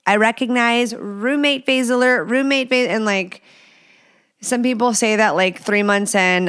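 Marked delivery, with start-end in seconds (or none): 0.1-2.9 higher, announcing roommate phase alert; mock alert call. To a spouse, a playful raised alert. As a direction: call it out like an alarm. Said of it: "say something and say".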